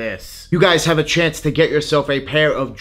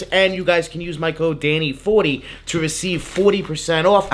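upbeat sponsor pitch; ad read; 2 semitones higher than usual. Acted. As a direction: sell the product like an ad.

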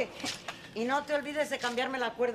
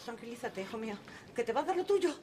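calmante; 3 semitones higher than usual. Acted. Madre calma al hijo.

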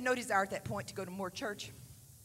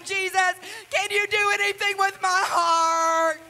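rising, louder pleading cry; 7 semitones higher, 10 dB louder, slower than usual. Retold or imitated. Girl at the altar crying out to God, loud pleading. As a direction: cry out to Jesus for help. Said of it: "And I'm crying".

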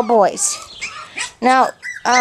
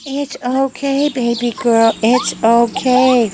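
calm the little dog down gently and slowly; soothing puppy; slower than usual. Real, not acted. Calming a worked-up puppy.

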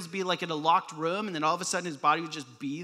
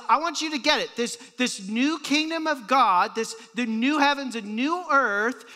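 loud, raised, insistent preaching; intensely emphatic; 4 semitones higher, 6 dB louder than usual. Acted. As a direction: hammer "you as you are" high and loud. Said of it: "he goes on even more so".

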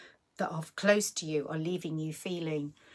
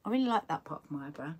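kind self-talk; 4 semitones higher than usual. Retold or imitated. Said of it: "I would just say".

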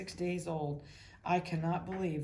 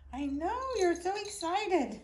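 high, drawn-out gushing to a puppy; excited pet talk; 12 semitones higher, 5 dB louder, slower than usual. Real, not acted. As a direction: share the puppy's excitement, pitched way up.

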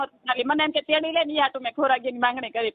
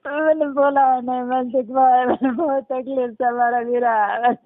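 slow, lower, crying as she begs for help; tearful pleading; 3 semitones lower, slower than usual. Real, not acted. Caller begging radio host for help, crying. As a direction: plead through real tears, slowly. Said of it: "છાના રહી જાઓ".

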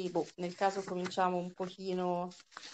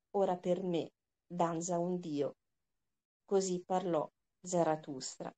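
reading aloud. Acted. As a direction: read the passage to the class with weight. Teacher reads Nietzsche aloud. (lettura ad alta voce, lenta e misurata)

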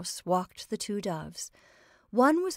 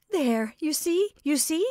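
high, loud, laughing cry; helpless laughter; 8 semitones higher, 5 dB louder than usual. A narrator's reading. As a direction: cry it out as the giggles take over. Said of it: "She began laughing".

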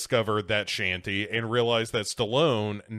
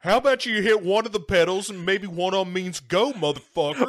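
high-pitched impatient driver rant; hammed-up road-rage griping; voicing displeasure; 6 semitones higher, 4 dB louder than usual. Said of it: "so he can voice his displeasure".

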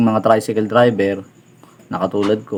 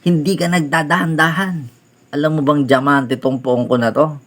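retold yell; 5 semitones higher than usual. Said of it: "Sinigawan na naman ako".

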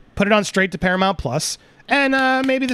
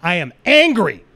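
firm, slightly louder declaration of anger; real anger; 3 semitones lower, 4 dB louder than usual. Real, not acted. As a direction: state it like you mean it, openly angry. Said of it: "'cause I'm angry".

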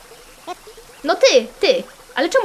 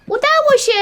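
high-pitched cry of success; excited cheer; 12 semitones higher, 4 dB louder than usual. Real, not acted. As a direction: cheer the win, voice leaping up high.

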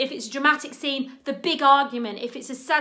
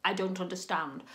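baffled self; 6 semitones lower, 8 dB quieter, faster than usual. Retold or imitated. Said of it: "I was like".

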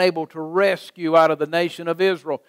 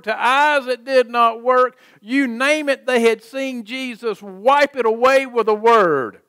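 raised, insistent preacher's cadence; preaching; 6 semitones higher than usual. Real, not acted. Preacher listing Jesus's miracles to the congregation, preaching. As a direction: preach it as a driving, mounting list.

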